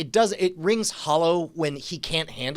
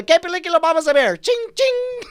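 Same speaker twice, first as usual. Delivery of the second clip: put-on high, fast, squealing little-girl voice; excited kid imitation; 6 dB louder than usual. Dad imitating his excited daughter in a squeaky little-girl voice. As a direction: bounce it up like a thrilled child. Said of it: "she got so excited because she's like".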